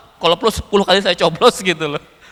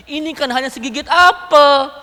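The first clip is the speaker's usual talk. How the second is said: protesting wife; 4 semitones higher than usual. Retold or imitated. Wife protests over harsh scolding.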